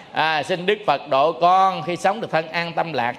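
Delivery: lightly intoned Buddhist prayer; prayer recitation. Acted. Leads a Buddhist vow prayer.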